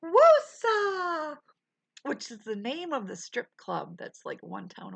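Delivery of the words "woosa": high, loud laughing woosa; laughing call. Real, not acted. Streamer laughing the calming word to chat. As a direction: belt it out mid-laugh.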